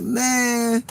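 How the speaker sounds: frustrated cry of man; exasperated shout. Retold or imitated. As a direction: blurt it out annoyed. Frustrated at mom.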